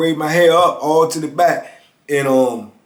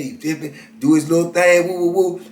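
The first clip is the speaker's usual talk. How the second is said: ordinary talk, nothing marked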